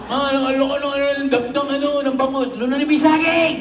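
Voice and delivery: flustered yelling an order; mock panicked relative. Comic retelling a relative panicking over a fishbone.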